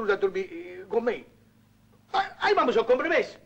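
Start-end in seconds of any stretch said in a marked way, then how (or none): 2.1-3.4 panico. Real, not acted. Panico, chiama l'amico.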